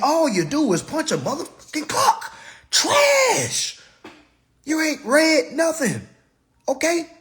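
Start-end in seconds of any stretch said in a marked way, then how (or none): 2.7-7.1 high, loud one-word put-down; contemptuous exclamation; scornful verdict. Real, not acted. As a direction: spit it out like a final judgment. Ranting verdict on non-readers.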